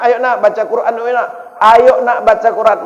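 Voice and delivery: cheerful mock mother's call; mother coaxing kids. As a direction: call the kids in like a village mum. Mother calling kids to read Quran.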